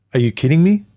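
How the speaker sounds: can't believe what he's hearing; exasperated disbelief. Retold or imitated. Man answering his ex's late demand, incredulous.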